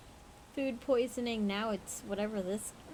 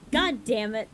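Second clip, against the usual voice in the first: loud exasperated curse; 8 dB louder than usual. Real, not acted. Exasperated at repeated pick.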